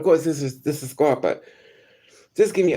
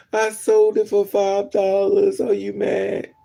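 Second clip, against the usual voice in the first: higher, louder, drawn-out whine; mock tearful confession; 5 semitones higher, 4 dB louder, slower than usual. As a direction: imitate a whining, crying addict confessing. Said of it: "they crying".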